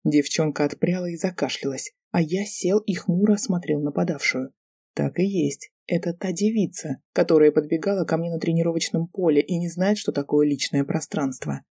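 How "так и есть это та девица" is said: usual speaking voice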